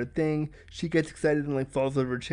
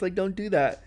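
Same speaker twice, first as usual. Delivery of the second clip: higher, mock disgusted scolding; disgusted mock outrage; 5 semitones higher than usual. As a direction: sneer at him as if in the scene, pitched up. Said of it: "And I was like".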